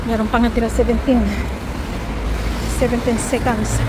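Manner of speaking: talking while running, a bit loud. Real, not acted. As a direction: call out the time mid-run. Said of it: "hinihingal na".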